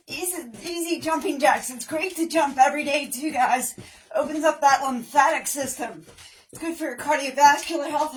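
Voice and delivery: upbeat workout coach calling counts; aerobics instructor. Acted. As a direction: pump up the class. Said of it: "leading workout with counts".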